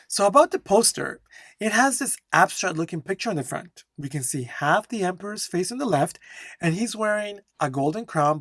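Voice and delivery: brisk read-aloud with lifted intonation; flowing model answer. Shown as a demonstration. Teacher reading out the poster description, flowing and intonated. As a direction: describe it in a quick, continuous, melodic flow. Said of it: "focus on my flow and intonation".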